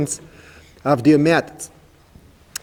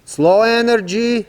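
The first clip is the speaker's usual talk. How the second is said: slow energy; 5 semitones higher than usual. Shown as a demonstration. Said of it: "First of all".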